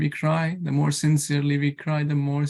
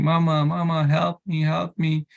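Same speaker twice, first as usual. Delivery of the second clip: a hint of a crying child, a bit higher; imitating a hurt child crying; 3 semitones higher than usual. Storyteller lightly voices a hurt child calling mama. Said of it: "the child was crying".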